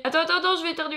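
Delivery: about to sneeze, nose tickling; holding back a sneeze. Real, not acted. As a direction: talk through an oncoming sneeze.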